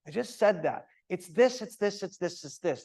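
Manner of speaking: clipped impatient repeat. Shown as a demonstration. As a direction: hammer the point, fed up. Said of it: "answering you with impatience".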